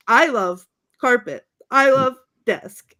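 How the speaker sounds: loud LOVE, pause, then the object; emphatic odd declarations. Retold or imitated. Fan quoting Brick naming office objects, emphatically. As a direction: declare each slowly with a pause.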